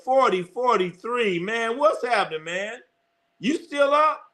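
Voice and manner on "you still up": surprised. Real, not acted. Reads a late night chat message.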